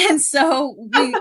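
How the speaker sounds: breaks into a loud laugh. Real, not acted. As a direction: laugh it out, real amusement. Laughs about shared PTSD.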